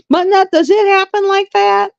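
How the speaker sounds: asking through her own laughter; laughing disbelief. Retold or imitated. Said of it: "And I was just like".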